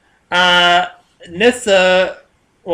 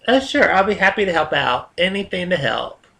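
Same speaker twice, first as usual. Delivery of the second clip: lilting, lightly put-on helpful voice; convincingly obliging; 2 semitones higher than usual. Tired worker agreeing to help the lead, dutifully obliging. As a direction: sell a mock-willing offer to help. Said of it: "You gotta say that convincingly".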